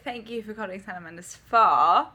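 put-on British receptionist; polite British-accented phone greeting. Shown as a demonstration. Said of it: "I started off with the British accent".

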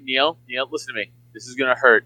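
bad doctor. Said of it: "the worst bedside manner".

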